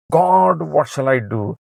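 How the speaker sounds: a desperate plea flung upward; crying out. Acted. Moses cries out to God again.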